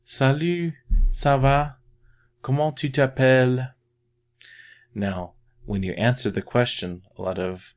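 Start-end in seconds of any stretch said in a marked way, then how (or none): 0.0-3.7 high, bright and a bit louder, casual with a friend; teacher showing how to greet young people, casual and high; casual French greeting. Shown as a demonstration. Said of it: "use that with young people".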